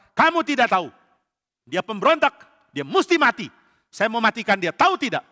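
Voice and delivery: furious king raging at the priest. Acted. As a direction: spit out the death sentence. Furious king condemns David.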